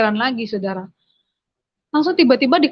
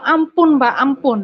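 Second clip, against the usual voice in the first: high, loud begging for mercy; desperate plea; 4 semitones higher, 4 dB louder, slower than usual. Retold or imitated. Beaten girl begging her father for mercy, high and loud. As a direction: cry out for mercy under blows.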